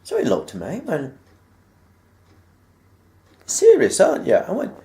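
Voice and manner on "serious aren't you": stern teacher query. Retold or imitated. Deputy head questions the boy.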